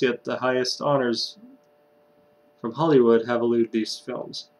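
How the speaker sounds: slurred speech after dental work; talking with a numb mouth; numb mouth from dentist. Real, not acted. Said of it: "sorry if I'm talking weird or if you can't understand the way I talk".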